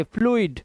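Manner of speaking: फ्लूइड as "floo-id"; "oo-ee" sound. Shown as a demonstration. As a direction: model फ्लूइड with two vowels, उ then इ. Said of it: "उई की आवाज आई है".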